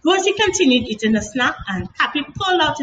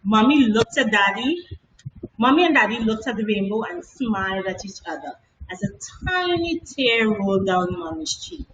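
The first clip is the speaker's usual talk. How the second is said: ordinary delivery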